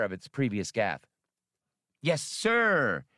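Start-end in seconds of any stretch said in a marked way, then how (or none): 2.0-3.0 high, purring alien waiter voice; purring Silji. A narrator's reading. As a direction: purr it out, eager to please. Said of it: "purred the Silji".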